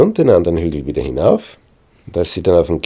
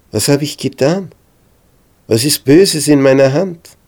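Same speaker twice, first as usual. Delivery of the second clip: higher, louder pleading call; 7 semitones higher, 6 dB louder than usual. A narrator's reading. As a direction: plead across the distance. David calls out to Saul.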